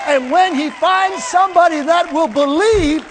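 rising to a loud, slow shout on released; preaching shout. Real, not acted. Preacher shouting to the church that power is released. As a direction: proclaim it with full force.

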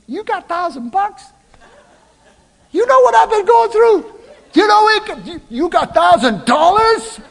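high, loud mock outburst at his wife; mock outraged yell. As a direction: play the husband losing it over hidden money, hammed up. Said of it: "that would have been my natural response".

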